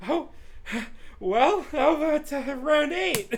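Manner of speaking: loud, high call for another round; loud, drawn-out dare; hammed-up challenge. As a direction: call it out in a big showy voice. Hammed-up challenge after being out of breath.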